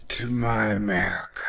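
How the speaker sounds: fast, breathy whisper; a fast hushed whisper. Retold or imitated. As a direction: drop to a quick whisper on "to my America". Quote ends in whisper.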